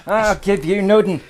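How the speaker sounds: mock-indignant Scottish burr, played for laughs; a posh Edinburgh Scottish accent, mock offended.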